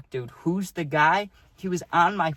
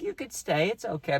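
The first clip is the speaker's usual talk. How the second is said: higher, polite reassurance; trying to be nice; 5 semitones higher than usual. Retold or imitated. Teammate letting friend stay, politely half-hearted. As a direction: offer it nicely but without conviction. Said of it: "he was trying to be nice".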